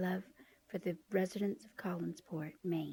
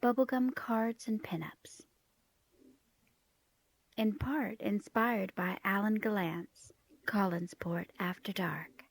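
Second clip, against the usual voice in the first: whispering; 4 dB louder, slower than usual. Acted. Host whispers album intro.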